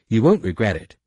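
put-on high, loud eager girl; excited girl. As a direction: burst with eagerness.

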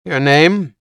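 high, squeaky fat woman. Acted. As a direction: pitch it up, thin and squeaky. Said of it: "the fat woman spoke in a squeaky voice".

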